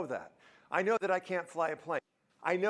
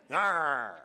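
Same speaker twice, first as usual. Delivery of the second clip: mock angry growl; 3 semitones lower, 4 dB louder than usual. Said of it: "the anger comes out".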